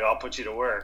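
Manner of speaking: lightly voiced Texan boss; a touch of a Texas accent. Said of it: "the Texas a-, a-, accent justice".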